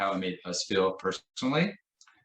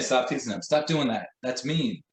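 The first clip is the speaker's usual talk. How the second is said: scolding order; 3 semitones higher than usual. Shown as a demonstration. Teacher scolding a student for teasing, sharply. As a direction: snap at the teasing kid. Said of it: "Instead of saying".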